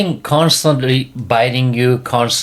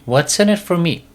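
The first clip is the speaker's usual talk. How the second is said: higher, whinier repeat of the dog's demand; bratty dog whine; 6 semitones higher than usual. Retold or imitated. Dog presses owner for a reward, higher and whinier. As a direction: push the pitch up on the second ask. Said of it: "The dog's like".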